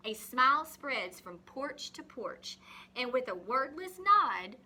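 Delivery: put-on reading a picture book to children; story reading. Teacher reading a rain story to the class, expressive reading.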